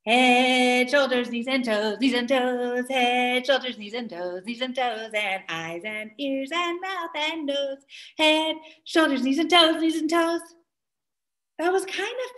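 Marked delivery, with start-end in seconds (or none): 0.1-10.4 quicker sing-along; fast. Shown as a demonstration. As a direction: pick up the pace of the song. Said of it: "ready to go pretty fast?".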